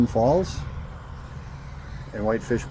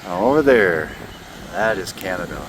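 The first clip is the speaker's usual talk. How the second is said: shouting over wind; 4 dB louder than usual. Real, not acted. Talking outdoors in strong wind.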